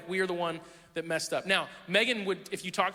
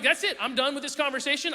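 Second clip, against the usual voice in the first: fed up; 7 semitones higher than usual. Retold or imitated. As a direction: storm off in mock fury. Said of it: "at that point".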